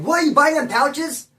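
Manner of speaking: high-pitched, drawn-out disbelieving question; incredulous. Retold or imitated. Inmate learns his friend buys tobacco for bullies, incredulous. Reacting to friend being exploited.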